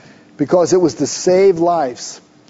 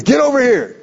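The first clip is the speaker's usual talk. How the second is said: put-on parent calling kids; 4 semitones higher than usual. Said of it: "When I tell my kids".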